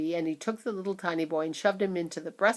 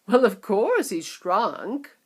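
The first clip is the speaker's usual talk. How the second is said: matter-of-fact; 4 semitones higher, 8 dB louder, slower than usual. A narrator's reading. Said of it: "said Mister Wonka".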